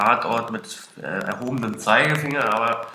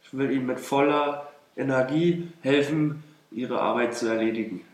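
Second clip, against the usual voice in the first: put-on Russian accent in German; 2 semitones higher than usual. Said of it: "was ist so dein Satz hier".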